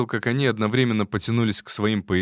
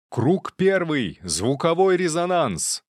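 high, slow shouted incantation; shouted spell; 8 semitones higher, 3 dB louder, slower than usual. A narrator's reading. Attacker casting at the train passengers, slow high shout. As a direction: call out the spell slowly. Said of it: "выкрикнул он".

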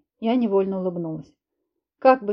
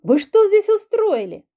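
slow, much higher, louder demand; angry shout; 11 semitones higher, 6 dB louder than usual. Acted. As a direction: demand an answer in fury. Heroine yelling at brawlers.

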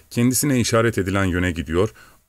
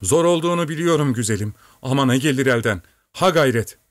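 higher, coaxing call to the horse; urging the horse; 5 semitones higher than usual. A narrator's reading. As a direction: cheer the tired horse on. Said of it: "Ata seslenip". (yorgun atını yüreklendirerek)

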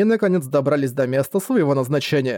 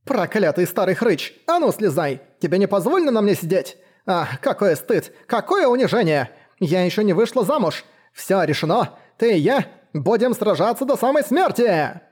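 higher, shrill outraged shriek at the rider; berserk rage; 5 semitones higher than usual. Acted. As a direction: scream at the old man to get off. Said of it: "в ярости кричал на своего наездника".

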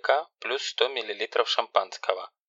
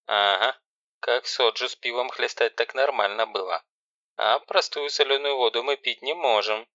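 sarcastic; 3 semitones higher than usual. Acted. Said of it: "с сарказмом".

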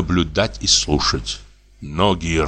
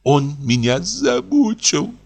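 high, slow tearful complaint; a touch of sobbing; Liza, tearful; 8 semitones higher, slower than usual. A narrator's reading. Liza's complaint. (жалобно, со слезой)

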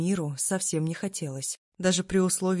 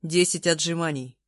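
barked order; 4 dB louder than usual. Acted. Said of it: "перебил он меня".

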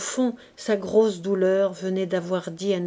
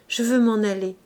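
urgent beg on "je veux m'en aller", moderately raised; pleading; 3 dB louder than usual. Acted. Gervaise begs Bazouge, restrained plea. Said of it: "se mit à le supplier avec passion".

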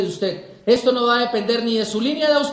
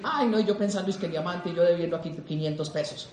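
dejected muttering; 5 semitones lower, 7 dB quieter than usual. Acted. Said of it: "Y dicen".

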